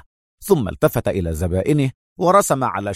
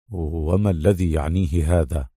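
puzzled henchman; 6 semitones lower than usual. A narrator's reading. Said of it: "سأل الرجل في حيرة".

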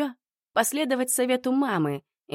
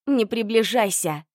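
through gritted teeth; 3 semitones higher, 4 dB louder than usual. Acted. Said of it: "процедила сквозь зубы".

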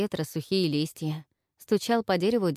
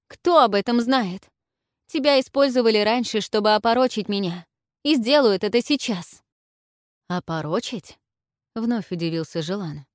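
higher and louder, urgent; agitated; 5 semitones higher, 6 dB louder than usual. A narrator's reading. Olga warns Zhelan he is being used, agitated. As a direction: press the point heatedly.

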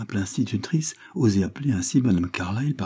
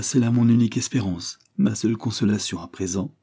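unctuous. Acted. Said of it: "de cette voix onctueuse qui pénétrait et persuadait".

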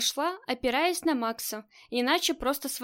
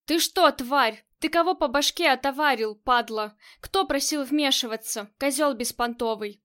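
yelling. Acted. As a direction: bellow curses at him. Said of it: "как орёт строгач".

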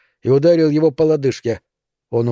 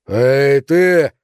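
loud call, rising on ты; shouting; 3 dB louder than usual. Acted. Neil yelling at Buddy while swinging the axe, shout. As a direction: shout him down. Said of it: "закричал Нейл".

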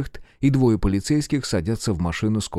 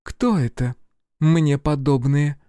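indignant woman agent; 6 semitones higher, 3 dB louder, slower than usual. A narrator's reading. Agent retorts.

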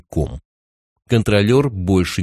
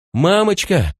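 put-on scared child; 11 semitones higher, slower than usual. A narrator's reading. Scared child calls mother.

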